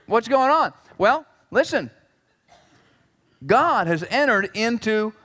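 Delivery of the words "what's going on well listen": incredulous. Acted. Preacher reacts to blasé spouse example.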